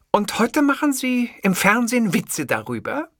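mild hiss of an angry reporter. A narrator's reading. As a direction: spit the question at him. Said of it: "zischte sie".

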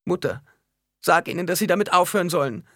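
put-on high child's plea to mother; pleading little girl. A narrator's reading. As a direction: beg mother in a small girl's high voice. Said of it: "einen bittenden Blick". (bittende Kleinmädchenstimme)

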